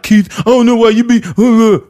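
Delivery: high, loud pretend rant at a coworker; mock yelling. Showing how he never yells at Keith, high mock yelling. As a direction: yell it hammed-up, spluttering into noises. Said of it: "I don't yell at people".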